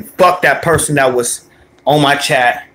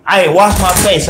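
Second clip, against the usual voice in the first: higher-pitched retold grumble; mildly pissed off; 6 semitones higher than usual. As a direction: act out a mildly annoyed kid. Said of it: "used to be pissed off".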